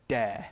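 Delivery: "de" with an open, untensed eh and no glide; open untensed vowel. Shown as a demonstration. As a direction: say "de" mouth open, lips relaxed. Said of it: "he would have said de".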